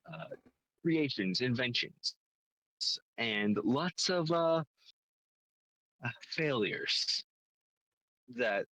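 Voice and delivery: measured scene-setting with deliberate pauses; game story pitch. Acted. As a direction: lay out the premise piece by piece, lifting key phrases.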